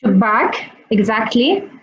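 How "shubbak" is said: Shubbak said with a clear sh and doubled b, stress on the first syllable. Shown as a demonstration. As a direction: model Shubbak slowly for the class. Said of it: "what's the word window in Arabic".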